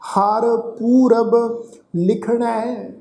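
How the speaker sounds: slow, drawn-out chanting of the verse; slow scripture recitation. Shown as a demonstration. Teacher recites the verse for the congregation, slow chant. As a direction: intone each word slowly and reverently.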